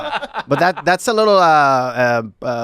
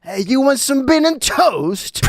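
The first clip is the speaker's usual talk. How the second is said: mock British accent; 12 semitones higher, slower than usual. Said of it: "close our eyes".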